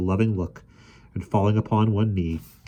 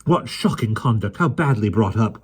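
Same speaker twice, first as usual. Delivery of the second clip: crowd crying; 4 semitones higher, 5 dB louder than usual. A narrator's reading. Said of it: "cried voices in the crowd".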